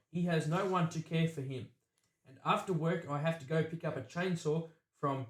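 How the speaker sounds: flat, even robotic reading. Retold or imitated. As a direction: recite it like a machine. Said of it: "it sounded like a robot".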